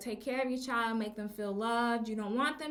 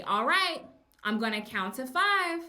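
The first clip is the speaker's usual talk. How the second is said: firm teacher warning; 4 dB louder than usual. Retold or imitated. Teacher warns a tantruming student.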